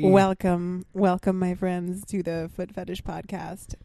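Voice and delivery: big booming host welcome, drawn out; booming sing song welcome. Acted. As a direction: boom it out like a showman.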